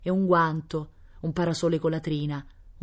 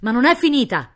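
high, loud protest; emphatic exclamation; 8 semitones higher, 8 dB louder than usual. A narrator's reading. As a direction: cry out as a fired-up count. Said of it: "esclamava il conde". (esclamazione accesa)

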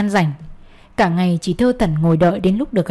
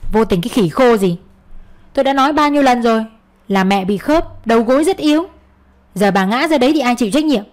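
raised, scolding husband; angry; 3 semitones higher than usual. Acted. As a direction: tell her off hotly. Husband scolds wife angrily.

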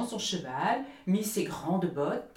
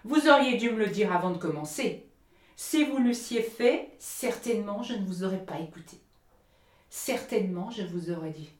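angry; 3 semitones higher, 5 dB louder than usual. Acted. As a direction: scold the bird, offended. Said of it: "d'un ton colère".

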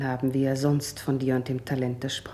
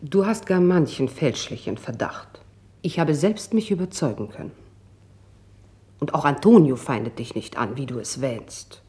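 louder, quickening insistence; forceful insistence; 6 dB louder than usual. Acted. Friend loudly insisting to Tasso he is wrong, faster. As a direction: push back hard and fast, louder.

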